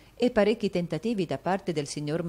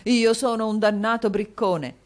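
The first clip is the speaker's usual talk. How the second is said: loud, higher hammed remorse; self-reproaching exclamation; 6 semitones higher, 7 dB louder than usual. A narrator's reading. Husband to wife, loud mock remorse. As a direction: beat yourself up theatrically. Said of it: "esclamò il signor Mantalini".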